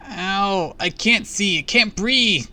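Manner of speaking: high, loud cries of pain; frantic and terrified; panicked cry. A narrator's reading. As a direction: cry out like a suffocating child. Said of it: "Jesse cried".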